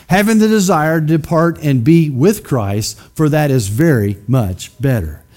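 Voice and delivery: slow, weighty reading aloud; measured scripture read with pauses. Shown as a demonstration. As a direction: read it out slowly to the congregation. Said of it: "let's read this together".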